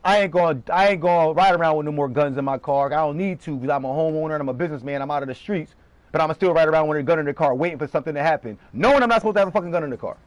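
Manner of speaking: lightly voiced careless gunslinger, speeding up at the end; a hint of a reckless guy talking himself into trouble; mock dumb street guy. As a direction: play the fool who rides around with a gun, half-mocking. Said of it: "that's like me saying".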